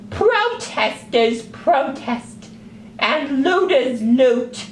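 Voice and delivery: high squeaky exasperated puppet; indignant little sock puppet lecturing. Acted.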